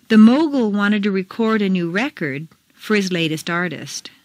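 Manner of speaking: first "record" as reCORD, second as RECord; contrasting word stress. Shown as a demonstration. Teacher reads exercise, contrasting reCORD with RECord. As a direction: stress reCORD for verb, RECord for noun. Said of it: "Mark the intonation".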